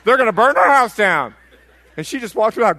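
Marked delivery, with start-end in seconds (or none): 0.0-1.3 loud high cry for help to God; acted-out wail of a frightened wife. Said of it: "I'm crying out".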